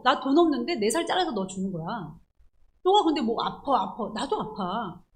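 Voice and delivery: a mock heated money quarrel; angry quarrel. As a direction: scold them like a stingy boss who won't give. Acted quarrel over money.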